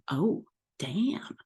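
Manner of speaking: breathed out in a whisper, impressed; whispered in awe; awed whisper. Retold or imitated. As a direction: whisper it like you can't believe it. Impressed by her own numbers.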